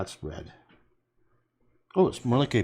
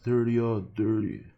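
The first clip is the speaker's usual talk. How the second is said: imitating a backwoods drawl. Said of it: "would talk like that".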